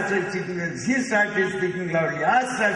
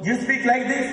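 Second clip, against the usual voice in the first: raised pitch, mock questioning demonstration; speaking after a big breath; 7 semitones higher than usual. Shown as a demonstration. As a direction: take a big breath, then ask, higher.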